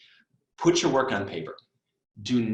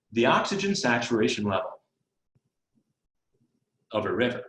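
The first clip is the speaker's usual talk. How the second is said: very slow reading with long pauses; idiot speed. Shown as a demonstration. Tutor demonstrates slow reading of a word problem, idiot speed. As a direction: read phrase by phrase, halting deliberately between chunks. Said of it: "reading the problem so slowly".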